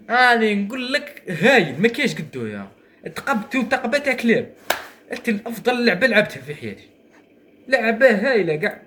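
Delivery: high, laughing victory gush; excited celebration. Real, not acted. Gamer bragging to viewers about a win, high and laughing. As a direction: crow about the best game of your life.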